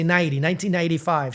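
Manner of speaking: "ninety" with the middle N swallowed; rushed pronunciation. Retold or imitated. Showing old mistake to cohost, consonants swallowed. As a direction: run "nineteen ninety-five" together as "ninety"-"naidy". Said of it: "you have to slow down".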